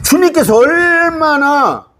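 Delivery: high, stretched cry on 얼마나; drawn-out emphasis. Real, not acted. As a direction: hold 얼마나 long and high. Preacher stresses the Lord's longing.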